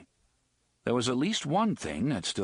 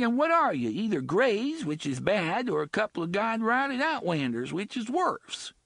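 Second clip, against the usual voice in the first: high, coarse dialect woman's voice; rough slum woman; 11 semitones higher than usual. Acted. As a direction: sullen bloody woman voice. Bloody woman character voice.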